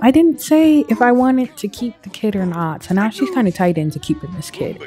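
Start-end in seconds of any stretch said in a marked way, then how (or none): 0.0-2.8 high, indignant disbelief; shocked that he told; upset disbelief. Acted. Noelle protesting to her partner about the pregnancy, indignant disbelief. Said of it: "Noelle's like".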